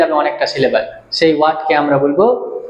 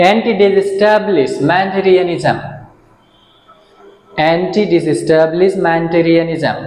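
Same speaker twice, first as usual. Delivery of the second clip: anti-disestablishmentarianism stretched out very slowly, syllable by syllable; slow dictation; much slower than usual. Shown as a demonstration. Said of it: "an, একটা সিলেবাল an". (খুব ধীরে সিলেবল ভেঙে বলা)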